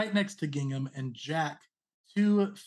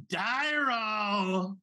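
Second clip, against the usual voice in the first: drawn-out, higher call of a name; gleeful shout; 6 semitones higher than usual. Acted. Charging villain greets his target by name, shouting gleefully. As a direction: holler it long, with a big smile. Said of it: "has a big smile and shouts".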